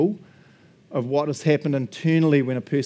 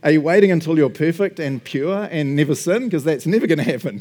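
retold challenge. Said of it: "And then I always go".

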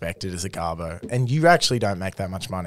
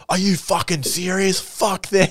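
higher-pitched mock indignation; outraged disbelief; 8 semitones higher than usual. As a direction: imitate an incredulous boss dismissing them. Retold boss reacting in disbelief.

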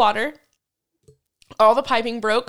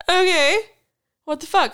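retold shock; 7 semitones higher, 4 dB louder than usual. Retold shock at the locked-out apartment.

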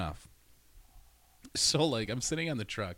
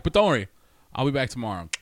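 high loud giggly reassurance; high louder laughing tease; 5 semitones higher, 8 dB louder, faster than usual. Retold or imitated. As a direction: laugh while teasing him. Teasing boss after laughing.

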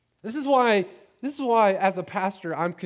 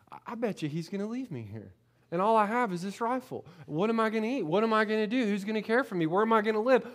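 put-on panicked child thoughts; 4 semitones higher, faster than usual. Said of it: "I started freaking out".

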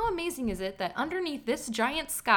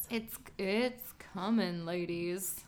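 sultry voice; 2 semitones lower, 5 dB quieter than usual. Pretend. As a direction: purr it like a sultry host. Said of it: "She said that in a sultry voice".

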